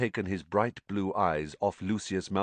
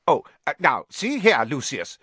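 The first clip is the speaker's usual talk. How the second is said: flustered, raised voice, higher and louder; alarmed; 8 semitones higher, 7 dB louder than usual. A narrator's reading. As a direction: protest in nervous alarm. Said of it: "looking alarmed".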